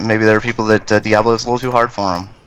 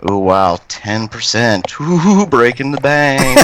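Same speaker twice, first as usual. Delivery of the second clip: sarcastic; slower than usual. Real, not acted. Mocking a small discount.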